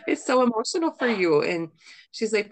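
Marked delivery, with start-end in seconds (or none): 0.1-1.4 high-pitched, through a laugh; amused, high retelling; laughing retold reply. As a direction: laugh while quoting your own emotional answer. Laughs retelling her tearful reply.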